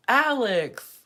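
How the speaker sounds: high, loud call of a name. Retold or imitated. Drunk guy calling Alex across the group, loud.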